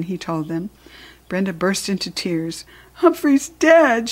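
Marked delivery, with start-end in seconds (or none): 2.9-4.1 put-on high, loud, drawn-out child's wail; acted tearful outcry; sobbing. A narrator's reading. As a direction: wail it slowly like a sobbing little girl. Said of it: "she sobbed".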